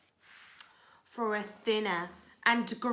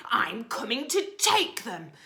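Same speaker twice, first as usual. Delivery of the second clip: mild yell; 4 semitones higher, 7 dB louder than usual. Acted. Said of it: "the rat thief yelled".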